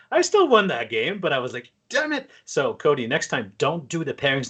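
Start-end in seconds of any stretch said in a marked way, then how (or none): 1.9-2.3 high-pitched, exasperated quoted curse; mock frustration. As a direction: act out cursing your bad luck. Acting out own frustrated reaction.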